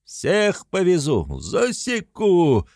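high, very slow rage; furious shout. A narrator's reading. Mikolka threatening the mare, slow high furious yell. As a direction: drag out the threat.

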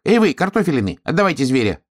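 very high loud shout; high shout across the sky; hedgehog shouting. A narrator's reading. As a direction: yell up at them. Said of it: "закричал ежик".

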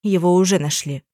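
ordinary delivery

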